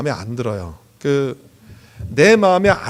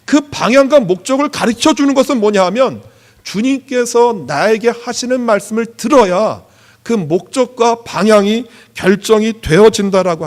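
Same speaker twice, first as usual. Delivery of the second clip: raised, insistent pulpit voice; emphatic preaching; 4 semitones higher, 6 dB louder than usual. Real, not acted. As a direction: preach it with punched key words. Preaches to congregation.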